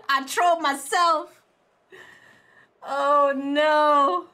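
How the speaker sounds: high, loud, drawn-out wail; laughing wail. Real, not acted. Streamer admitting they trolled themselves, laughing wail. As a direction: wail slowly, weak from laughing.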